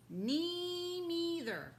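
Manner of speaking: a timid little mouse chiming in; tiny little voice. Acted. Mouse chiming in with the boars, tiny voice. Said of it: "said a tiny little voice".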